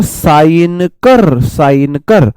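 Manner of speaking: slow, firm order to sign; boss की तरह धीमा हुक्म; commanding demo. Shown as a demonstration. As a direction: drawl the sign command like a boss. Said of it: "ऐसे देखो".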